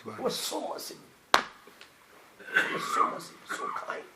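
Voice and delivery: soft, breathy and slow reverence; almost whisper his mercy; hushed awe. Acted. Awed praise of the Prophet.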